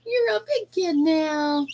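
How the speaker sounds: high, slow cooing praise. Real, not acted. Telling the chick it has grown, high slow baby talk. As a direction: praise the chick like a proud parent.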